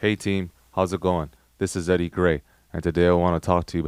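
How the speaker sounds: low, flat, dull, lifeless monotone. Showing how not to open a video script: boring flat delivery. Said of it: "That's boring".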